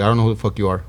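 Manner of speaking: low, offhand brush-off; indifferent retort. Retold or imitated. Patient to a stranger asking to be recognized, indifferent. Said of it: "I don't give a damn".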